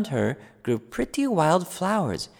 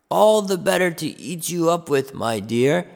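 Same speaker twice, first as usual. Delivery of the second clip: pouncing wolf; 2 semitones higher, 4 dB louder than usual. Acted. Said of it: "he said as he sprang".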